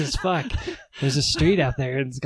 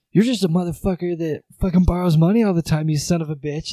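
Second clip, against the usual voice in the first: angry mock tirade, raised pitch and volume; higher, louder pretend dad rant; mock yelling; 5 semitones higher, 4 dB louder than usual. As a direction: play at chewing someone out. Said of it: "I was just yelling at you".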